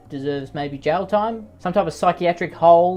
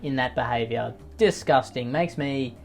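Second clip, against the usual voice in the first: slow, drawn-out disgust; mock disgust; 3 semitones lower, slower than usual. Host reacts to a cyberbullying boast, mock-disgusted. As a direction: play up being sickened, stretching the words. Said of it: "I am just so disgusted".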